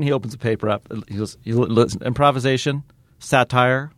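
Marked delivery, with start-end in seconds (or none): 2.0-3.9 very dry. Retold or imitated. Actor reads comedy terms off a paper, very dry. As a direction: read the list drily. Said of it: "just so dry".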